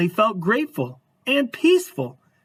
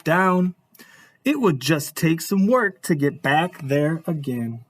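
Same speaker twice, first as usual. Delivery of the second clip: storybook narration. A narrator's reading. Reads picture book aloud.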